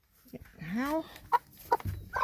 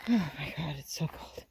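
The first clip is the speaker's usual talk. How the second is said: gasping in icy wind; 5 semitones lower, 6 dB quieter than usual. Real, not acted. Cold outside in snow.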